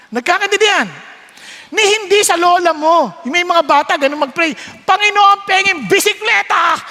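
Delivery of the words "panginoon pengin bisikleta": put-on child shouting prayer. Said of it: "bakit sumisigaw".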